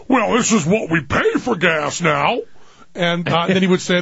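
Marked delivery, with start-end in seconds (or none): 0.1-2.4 lightly put-on gas station guy voice; other guy voice. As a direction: mimic dad's stock character for strangers. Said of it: "the guy goes; one other guy voice".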